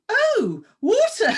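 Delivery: high, loud, prim British "water" with the t crisp and clear; mock-prim, laughing "Oh, water". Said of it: "I felt very prim going".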